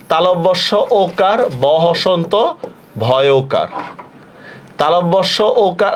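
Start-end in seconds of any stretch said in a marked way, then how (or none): 0.1-3.7 slow dictation of সভ্য as "shob-bho"; pronunciation spelled out. Shown as a demonstration. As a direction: spell সভ্য piece by piece, rounded o in both syllables. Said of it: "সভ্য শব্দের হবে".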